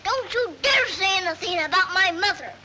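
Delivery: put-on heated childish retort; indignant. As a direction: defend your mother with a touch of fury. Girl defends mother in acted quarrel.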